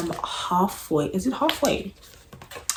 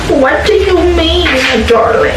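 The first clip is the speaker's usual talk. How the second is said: higher British purr; British hero voice; 10 semitones higher, 12 dB louder than usual. Retold or imitated. Fan imitating the audiobook hero, British accent. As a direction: copy the narrator's British darling. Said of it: "but it's giving British accent".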